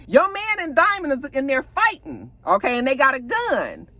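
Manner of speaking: high-pitched urgent report, acted lightly; alarmed retelling. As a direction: play someone rushing out with bad news. Acts out Gidget running out alarmed.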